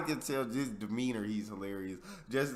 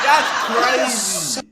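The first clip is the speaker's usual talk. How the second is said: loud, high, drawn-out disbelief; real amazement; 8 semitones higher, 11 dB louder, much slower than usual. Real, not acted. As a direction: exclaim it slowly, laughing in amazement. Reactor amazed by the noise trick.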